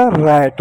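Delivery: रैट with an open "ae" vowel; short-a pronunciation. Shown as a demonstration. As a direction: say रैट slowly as "raet". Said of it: "ए के रूप में होगा". (रैट में ऐ की मात्रा का उच्चारण)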